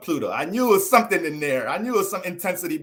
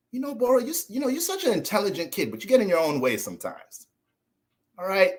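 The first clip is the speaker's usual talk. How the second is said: higher, lightly voiced gentle teacher; a hint of a patronizing teacher; teacher imitation; 5 semitones higher than usual. Streamer imitates teacher Miss Robinson scolding him, mild.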